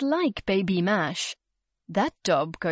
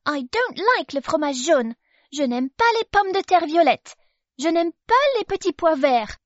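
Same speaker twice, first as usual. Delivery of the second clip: put-on much higher, louder baby voice; a fussy baby rejecting the food; baby refusing every dish; Baby exclaiming; 8 semitones higher, 5 dB louder than usual. A narrator's reading. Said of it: "exclaimed Baby".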